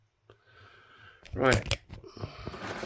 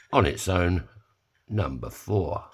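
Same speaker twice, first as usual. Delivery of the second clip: bingo caller; slower than usual. Acted. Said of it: "done a bit of, uh, bingo calling".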